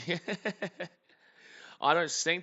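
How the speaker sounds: emphatic retort. Real, not acted. Streamer protesting the chat's joke, loud and emphatic. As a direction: push back hard on the teasing.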